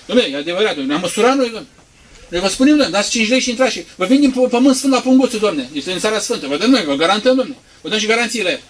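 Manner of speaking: loud, high sales pitch; pushy hawker. Acted. Preacher mimics hawkers selling holy land soil. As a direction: sell holy soil loudly. Mocked pilgrimage sellers' pitch.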